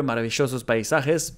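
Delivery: "maravillosos" with either SH or Y for the ll. Shown as a demonstration. Learner comparing show and automated voice, ll in "maravillosos". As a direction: contrast the ll of "maravillosos". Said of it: "becomes maravillosos paisajes".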